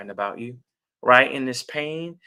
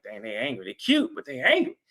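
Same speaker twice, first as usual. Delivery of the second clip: onlooker sister. Retold or imitated. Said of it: "that sister might be watching and be like".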